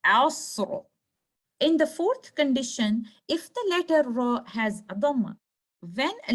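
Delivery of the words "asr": Asr with a heavy, thick final R; full-mouth tafkhim. Shown as a demonstration. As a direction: say 'Asr' deliberately, filling the mouth on the R. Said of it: "Letter ra with full mouth".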